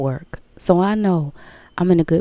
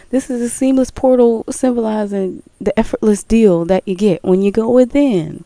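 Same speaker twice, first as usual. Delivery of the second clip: light mock ad-read voice; commercial voice; 3 semitones higher, 4 dB louder than usual. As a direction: parody a smooth car-ad announcer. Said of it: "what they say on the Drive Time commercial".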